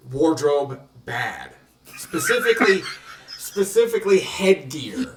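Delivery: blunt two-word monster speech; Frankenstein's monster voice. Acted. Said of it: "you sounded like Frankenstein's monster".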